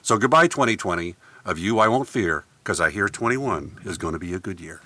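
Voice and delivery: measured, rhythmic verse reading; poem recitation. Shown as a demonstration. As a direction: recite a rhyming farewell poem. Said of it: "I'd like to give my salute".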